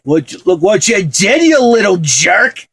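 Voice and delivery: angry, high, loud movie quote; Uncle Frank. Acted. Film fan quoting Home Alone's uncle, scolding. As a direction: scold with a slow, drawn-out final insult. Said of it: "you know, Uncle Frank".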